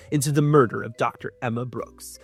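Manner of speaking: measured storybook reading over music; gentle audiobook narration; story narration. Acted. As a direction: read it like the back of a novel. Reads the thriller blurb.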